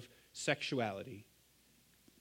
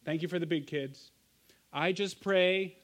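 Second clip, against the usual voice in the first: put-on toddler praying; 2 semitones higher than usual. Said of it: "Her prayer for the college students goes a little bit like this".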